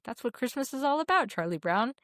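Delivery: family quoting Linus at the end; imitating Linus. Speaker's family echoing Linus after Dad reads, lightly voiced Linus. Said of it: "because that's how we hear it".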